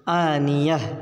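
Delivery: "आनियह" ending in h in place of t; final h stop. Shown as a demonstration. Teacher showing the t turned to h, "आनियह" ending in h. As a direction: stretch the aa of "आनियह" and close on h. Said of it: "ता को हा से बदल देंगे".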